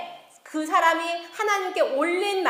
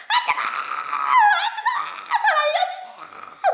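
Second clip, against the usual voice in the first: high, drawn-out acted scream from the flames; screaming in agony; 5 dB louder, slower than usual. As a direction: scream for rescue, stretching the words out. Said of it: "막 소리를 지르면서". (고통에 찬 비명)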